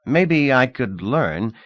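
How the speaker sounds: slow, doubtful hesitation; dubious. Acted. Thorby unsure about learning to ski, slow and dubious. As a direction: weigh it slowly, unconvinced. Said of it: "he said dubiously".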